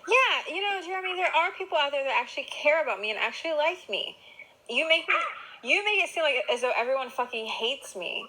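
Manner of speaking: exasperated. Real, not acted. Heated argument with partner.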